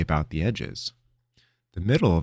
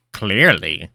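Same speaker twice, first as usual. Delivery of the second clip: flat; 8 dB louder than usual. Acted. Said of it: "Linram said flatly".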